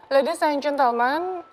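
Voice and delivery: flight attendant. Shown as a demonstration.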